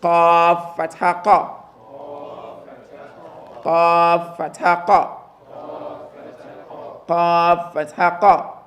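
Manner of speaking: slow, each syllable set apart; slow drill with a clean break between qaf and fatha; slow separated spelling. Shown as a demonstration. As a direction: keep the two F sounds clearly separate. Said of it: "what I'm trying to separate".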